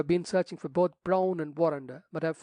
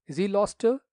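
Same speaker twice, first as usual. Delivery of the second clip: startled; 5 semitones higher, 6 dB louder than usual. A narrator's reading. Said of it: "Thorold bounded out of his seat".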